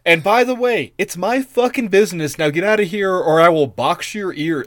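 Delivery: high, snotty mock bully; dickish threat. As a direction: sneer it out like a bratty king. Dickish Agamemnon, acted quote.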